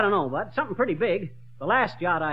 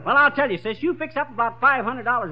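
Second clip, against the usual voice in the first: boasting; 4 semitones higher, 4 dB louder than usual. Acted. Big spender orders.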